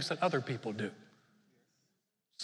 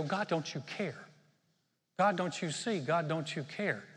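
whiny complaint. Shown as a demonstration. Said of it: "you don't want to do this".

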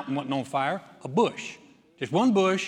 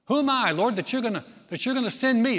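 higher and louder, a disbelieving cry; incredulous protest; 6 semitones higher, 3 dB louder, faster than usual. Retold or imitated. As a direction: plead that you're not the one. Moses protesting to God.

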